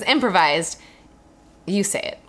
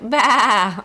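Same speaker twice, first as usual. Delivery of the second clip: drawn-out playful baa; sheep bleat; 2 semitones higher, 5 dB louder than usual. Retold or imitated. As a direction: imitate the running-joke sheep noise. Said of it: "we kept saying, like".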